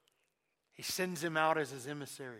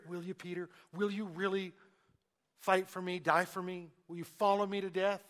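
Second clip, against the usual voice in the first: a touch louder, pressing question after question; searching Jesus; 2 semitones higher, 3 dB louder than usual. Shown as a demonstration. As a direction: press Peter gently but firmly. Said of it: "And you can hear it".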